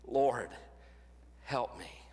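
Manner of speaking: low pleading cry, "help me" almost whispered; soft desperate plea. Pretend. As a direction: beg the Lord quietly, breaking down to a whisper. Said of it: "where we cry out".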